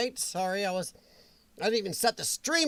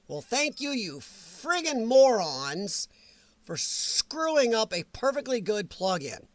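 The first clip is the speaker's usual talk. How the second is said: slow, then a hissed whisper on the plug-in; sarcastic thanks that sinks into a hissed whisper; ticked-off streamer cursing the software makers under his breath; annoyed sarcasm; 2 semitones higher than usual. Real, not acted. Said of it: "I'm actually pretty ticked off".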